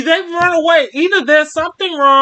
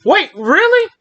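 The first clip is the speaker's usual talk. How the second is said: surprised; 5 semitones higher than usual. Acted. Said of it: "I say".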